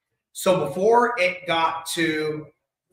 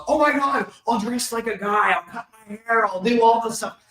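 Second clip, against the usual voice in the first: higher, louder mock plea of a girlfriend; eager girlfriend; 7 semitones higher, 4 dB louder than usual. Girlfriend begging to stay, in a higher mock plea. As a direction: play her as desperate to stay, voice pitched up. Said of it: "And she goes".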